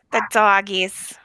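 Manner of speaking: slow, doting The doggies; cooing at dogs. Real, not acted. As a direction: coo The doggies to the pets.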